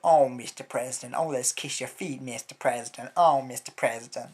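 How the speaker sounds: loud, gushing, swooning mock adoration; mocking fawning Americans. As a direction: grovel theatrically and loudly.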